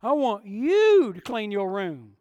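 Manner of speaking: loud, pointed parent ordering; stern parent. Retold or imitated. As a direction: bark chores at the kids. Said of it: "You ever done this to your kids?".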